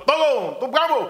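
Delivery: high, loud mock yell; mock outcry. Preacher acts out host with filthy guests, crying out.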